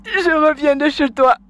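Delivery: slow, sobbing complaint; a wife crying to her husband's mother. Acted. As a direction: tell it through tears, slowly.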